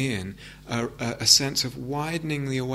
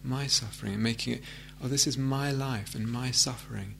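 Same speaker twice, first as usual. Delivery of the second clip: tender personal acknowledgment; 5 dB quieter than usual. Shown as a demonstration. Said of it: "more personalize it".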